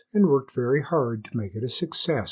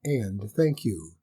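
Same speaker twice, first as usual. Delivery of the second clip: reasonable hare. Acted. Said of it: "said the hare very reasonably".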